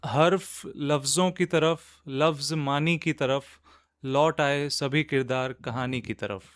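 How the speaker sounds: measured Urdu couplet reading; poetry recitation. Acted. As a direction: recite the couplet line by line, pausing between phrases.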